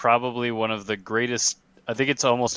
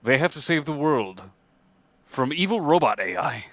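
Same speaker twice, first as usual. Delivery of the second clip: epic narrator voice. Acted. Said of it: "in my epic narrator voice".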